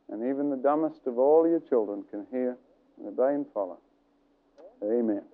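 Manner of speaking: low, earnest closing prayer. Acted. Preacher closing the teaching, an earnest low prayer. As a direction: pray humbly over the listeners.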